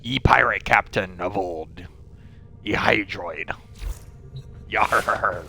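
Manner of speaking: slow hammed-up pirate talk. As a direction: ham it up like an old sea captain. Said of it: "Maybe I'll talk like a pi".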